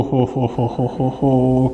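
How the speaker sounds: low, slow doom-laden ho ho ho; ominous low ho ho. Retold or imitated. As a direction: intone it like judgment day approaching. Dreading parent's reaction.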